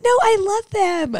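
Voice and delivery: put-on high, slow, gushing white-girl voice. Self-mocking dog lover, white-girl gushing. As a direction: gush it high and drawn out. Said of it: "like, a white girl".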